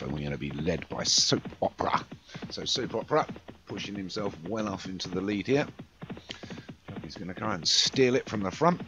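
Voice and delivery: steady play-by-play race commentary; live race call. Acted.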